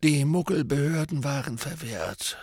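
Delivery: soft, lightly voiced old mentor; old wizard voice. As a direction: tell it gravely and quietly. Dumbledore's voice.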